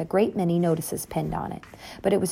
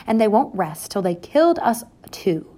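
whisper; 3 semitones higher than usual. A narrator's reading. Mother warns of killers.

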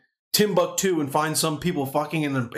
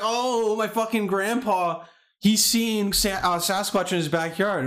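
higher, mocking voice of gullible folks; mocking old-timer quote; 5 semitones higher, slower than usual. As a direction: lightly mimic a credulous believer. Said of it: "People are always like".

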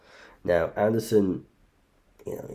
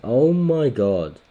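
high, loud, slow "oh my god"; shocked; 6 semitones higher, 7 dB louder, much slower than usual. Real, not acted. Reacting to his hero's loss, slow and shocked. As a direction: stretch out the shock.

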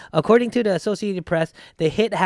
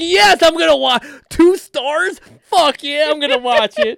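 eager excitement; 11 semitones higher, 7 dB louder than usual. Retold or imitated. Retelling eagerness for B movie.

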